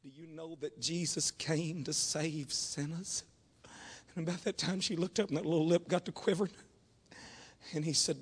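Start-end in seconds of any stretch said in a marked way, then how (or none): 0.0-3.2 slow, gentle imitation of the pastor; lightly imitated soft Southern pastor. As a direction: ask it softly and slowly, like a caring old preacher. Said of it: "in just that soft way that he has".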